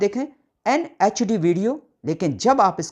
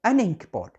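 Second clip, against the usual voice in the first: slow teaching demo; much slower than usual. Shown as a demonstration. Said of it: "प्रोनाउंसिएशन में आ आ रहा है".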